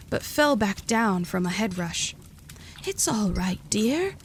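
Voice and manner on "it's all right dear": cooing. A narrator's reading. Edith coos to the stunned girl, gently. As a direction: coo it gently like a kindly aunt. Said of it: "Edith cooed".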